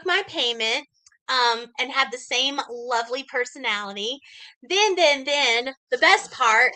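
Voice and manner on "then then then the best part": mock-eager sarcastic build-up; sarcastic hype. Real, not acted. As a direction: punch it up with false enthusiasm. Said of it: "and I'm being sarcastic".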